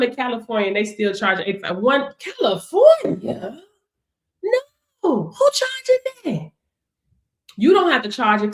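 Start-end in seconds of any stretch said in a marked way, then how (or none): 2.2-4.6 incredulous. Real, not acted. Reacts to student's low price. 5.0-6.5 appalled disbelief. Real, not acted. Reacts to student's low price.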